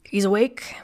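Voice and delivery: booming surprised call; thundering voice. A narrator's reading. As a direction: call out from across the house. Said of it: "A thundering voice emanated".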